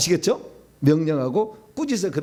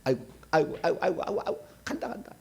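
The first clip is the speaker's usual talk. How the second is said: wailing demon; 7 dB quieter, faster than usual. Retold or imitated. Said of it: "그놈들이 말하는 겁니다".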